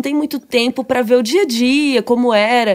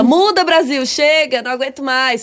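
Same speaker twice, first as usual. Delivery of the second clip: exasperated father. Acted. Ned tells his squabbling daughters to stop, acted exasperation. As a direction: act a dad at the end of his patience. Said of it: "Aí o Ned fica exausta".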